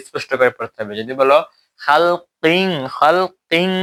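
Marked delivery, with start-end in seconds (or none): 1.8-3.7 খালকিন ending in a nasal ng, said higher; mock wrong খালকিন with ng ending. Shown as a demonstration. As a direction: say খালকিন with anusvara instead of clear n. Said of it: "অনুস্বার দেও".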